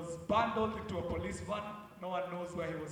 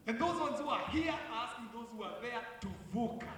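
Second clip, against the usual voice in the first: put-on Kenyan accent; 5 semitones higher than usual. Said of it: "Now I'm talking like a Kenyan".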